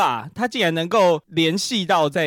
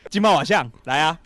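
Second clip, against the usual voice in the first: put-on Taiwanese accent. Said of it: "不是叫你学一位歌手".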